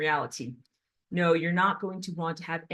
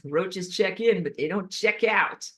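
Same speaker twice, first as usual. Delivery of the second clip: put-on old ad slogan. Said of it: "Here's old advertisements".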